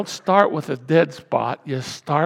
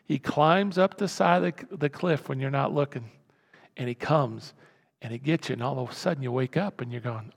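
ordinary talk, nothing marked

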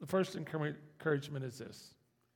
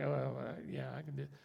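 shrugging it off; 4 semitones lower, 5 dB quieter, much faster than usual. Retold or imitated. Unimpressed gifted person, voiced.

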